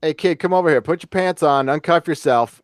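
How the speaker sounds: lightly voiced sleazy producer; a hint of a lecherous studio boss barking orders; creepy Groucho Marx. Host mocking a Me Too producer, light Groucho voice. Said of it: "That's my creepy Groucho Marx imp-, impression".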